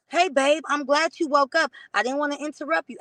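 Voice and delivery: mock sugary-sweet boyfriend, lightly done; extra nice. Boyfriend greets her the morning after, with mock extra niceness. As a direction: sweeten it up like a too-nice TV husband. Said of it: "acting all extra nice and shit like Pleasantville".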